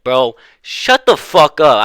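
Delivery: cussing out. Retold or imitated. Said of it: "started cussing her out".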